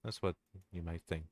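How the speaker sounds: possessive villain. Acted. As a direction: purr every threat as tender devotion. Reads the villain's possessive speech.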